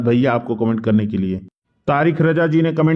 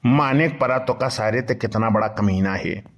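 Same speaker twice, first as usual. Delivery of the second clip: put-on grumbling old man. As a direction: mutter like a henpecked old villager. S1 plays Badke Bappa grumbling.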